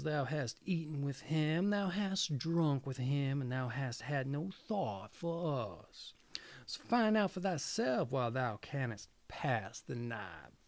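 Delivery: lightly voiced animals, ending hushed; animals' reproach. Animals rebuke second girl.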